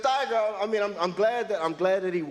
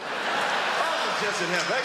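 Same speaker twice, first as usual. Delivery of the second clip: blissful; 4 semitones higher, slower than usual. Retold or imitated. Overjoyed watching Tiger win.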